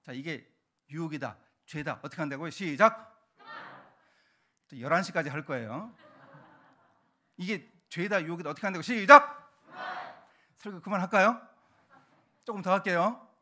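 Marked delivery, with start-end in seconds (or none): 2.5-3.1 loud count-in to the congregation; sharp, louder starting cue; cueing a crowd. Real, not acted. 8.8-9.5 very loud, raised starting call; big, punchy go signal; cueing a crowd. Real, not acted. Cueing congregation to shout again.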